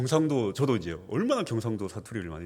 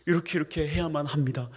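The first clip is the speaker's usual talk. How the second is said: whispered practice; 3 semitones higher than usual. Shown as a demonstration. Pastor practicing complete sentences, whispered. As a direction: whisper full sentences in standard speech. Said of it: "연습하고, 또 연습하고".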